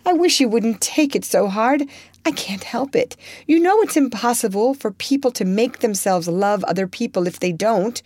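high, pleading apology; remorseful crying out. Acted. Joe pleading remorsefully with heartbroken Laurie. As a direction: beg him to stop hurting. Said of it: "cried Joe, inelegantly but remorsefully".

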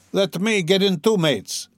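high, eager call from the crowd; shouted. A narrator's reading. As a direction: pitch it up, begging to join in. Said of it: "shouted a young man in the crowd".

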